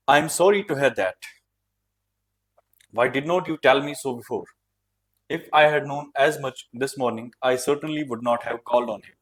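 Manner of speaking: slow, measured reading of dialogue; novel reading. A narrator's reading. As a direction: read it out slowly, word by word. Reads the novel aloud. (धीरे-धीरे संवाद पढ़ने का अंदाज़)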